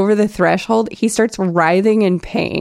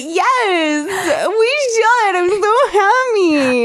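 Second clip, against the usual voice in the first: high, laughing, near-crying gush; hammed-up tearful delight; overjoyed; 10 semitones higher, much slower than usual. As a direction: squeal it as if weeping for joy. Kit thrilled about double date.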